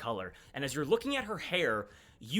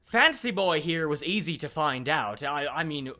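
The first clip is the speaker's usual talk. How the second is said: louder, knowing official showing off her digging; lightly voiced smug informant, brisk in places; Phoebe; 5 dB louder than usual. Phoebe revealing what she knows of Hurricane, mildly smug.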